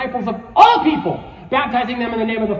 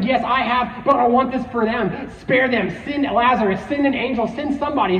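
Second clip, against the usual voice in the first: slightly raised, acted pleading; retold plea with a touch of desperation; begging; 3 semitones higher than usual. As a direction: plead in short repeated requests. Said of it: "and he's begging".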